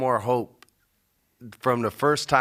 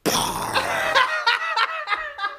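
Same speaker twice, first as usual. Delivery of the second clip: high laughing mock punch noise; imitated sound effect. Retelling the wrestler's noise on his finisher, laughing. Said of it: "you literally hear him go".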